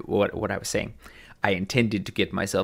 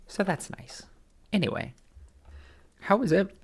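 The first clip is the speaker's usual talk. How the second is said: choking on spit; 12 semitones higher than usual. Real, not acted. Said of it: "I, I'm choking".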